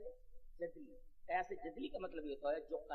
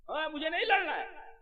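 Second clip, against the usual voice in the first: higher pleading refusal as Arjun; a hint of a reluctant warrior saying no; lightly voiced Arjun refusing; voicing Arjun; 11 semitones higher, 8 dB louder than usual.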